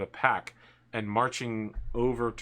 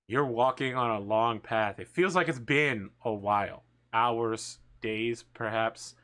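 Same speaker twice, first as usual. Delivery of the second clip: measured scene-setting, slowing for each detail; game master narration; 2 semitones lower than usual. Acted. Game master describes death's approach to a fallen player, slow narration. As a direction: unfold an eerie vision in spaced-out phrases.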